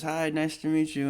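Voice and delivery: singer imitation. A singer greeting fans, lightly imitated high voice.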